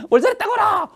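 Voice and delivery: very high-pitched mock shriek; hammed-up maternal telling-off; scolding mother. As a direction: imitate mom screeching at a crying child. Mother's scolding repeated in put-on voice.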